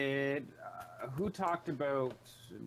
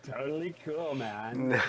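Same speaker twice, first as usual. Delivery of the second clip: surfer bro voice; 5 dB louder than usual. Pretend. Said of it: "you already sound like a surfer bro".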